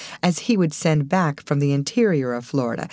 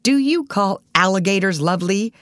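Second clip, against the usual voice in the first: grouchy challenge, pitched up; grouchy actor; 5 semitones higher, 3 dB louder than usual. A narrator's reading. Grouchy actor challenging a fond remark about Florida, indignant. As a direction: object like a habitual grumbler. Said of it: "known as the actor with the grouch".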